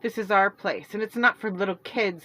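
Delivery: furious shout to drive her away. Acted. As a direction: Celeste shouting her sister away from the tree. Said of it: "Celeste shouted".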